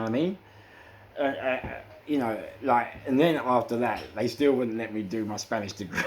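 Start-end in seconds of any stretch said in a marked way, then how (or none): 4.1-6.1 real high laugh at the irony. Real, not acted. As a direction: laugh it off in disbelief. Laughs at refusal.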